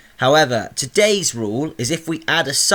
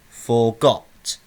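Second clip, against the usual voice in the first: FORGOT with the second syllable, got, leaned on; stress on GOT. Shown as a demonstration. Teacher repeating to show stress, got emphasised. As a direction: say "forgot" with the weight on its last syllable. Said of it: "So got is stressed".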